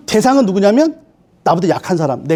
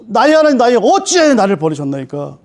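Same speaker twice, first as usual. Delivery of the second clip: crying out. Acted. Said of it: "이렇게 부르짖는 거예요".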